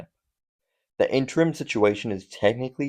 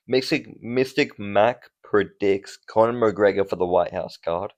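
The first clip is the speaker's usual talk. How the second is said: bad Irish accent. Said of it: "Oh, this is a terrible accent".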